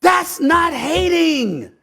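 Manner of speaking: heated pundit debate. Real, not acted. Heated rebuttal to co-host.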